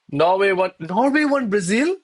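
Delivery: high-pitched excited disbelief. Real, not acted. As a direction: squeal with delight at the upset. Reacting to Norway beating Brazil.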